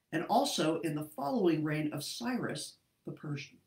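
steady, earnest Bible narration with lightly voiced characters; scripture story reading. A narrator's reading. Reading Daniel chapter six to friends online, earnest storytelling. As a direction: read the old story to the group.

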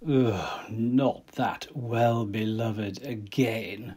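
slow, groaning and fed up; an eye-rolling, slowed-down complaint; weary exasperation. Acted. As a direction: drag it out like you've heard it all before. Friend weary of the obsession.

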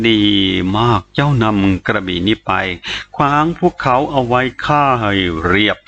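low, measured sinister order; commanding spirit. A narrator's reading. Spirit handing the boy a sword to kill, low command.

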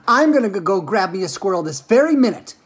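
high, loud bratty threat; shouted. Acted. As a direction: shout as a spoilt girl set on having her way. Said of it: "shouted Veruca".

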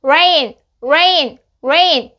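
"rain" with the tongue curled up, almost touching the palate. Shown as a demonstration. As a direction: roll the tongue back for the r in "rain". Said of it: "혀를 말아 올려주시고 천장에 닿을 듯 말 듯".

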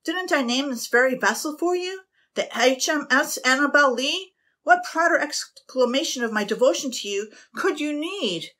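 captain demanding her attention; aggrieved captain. A narrator's reading. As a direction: guilt her for the crow.

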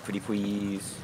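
put-on baby-talk "pwetty pwease"; cutesy begging. Player trying another way to beg teammate, cutesy plea. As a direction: stretch out a wheedling please. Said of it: "What if I say it like that?".

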